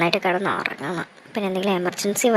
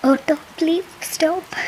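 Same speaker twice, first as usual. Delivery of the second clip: calling out; 6 semitones higher than usual. Acted. Calling an auto at night.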